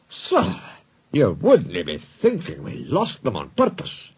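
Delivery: slow, wounded Scottish protest; pained Scottish accent. Acted. Twins looking pained, wounded Scottish protest.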